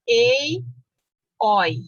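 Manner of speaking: "Ei" and "oi" said apart with open vowels; open diphthongs. Shown as a demonstration. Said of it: "Paroxítonas com os ditongos abertos".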